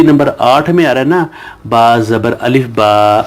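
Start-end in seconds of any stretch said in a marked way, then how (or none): 1.7-3.2 slow spelling drill. Shown as a demonstration. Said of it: "یہ دیکھیں،".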